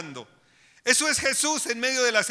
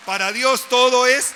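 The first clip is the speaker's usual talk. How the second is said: louder, ringing declaration; loud proclamation; 6 dB louder than usual. Real, not acted. Preacher proclaiming to the congregation, loud. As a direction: proclaim it to the whole church. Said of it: "preacher proclaims".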